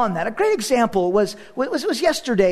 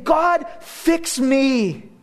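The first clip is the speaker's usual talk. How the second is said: weeping prayer; 4 semitones higher, much slower than usual. Retold or imitated. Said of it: "I began to weep saying".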